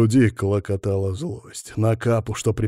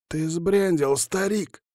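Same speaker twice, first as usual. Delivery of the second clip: hoarse hiss; 7 semitones higher, slower than usual. Acted. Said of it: "просипел Капа".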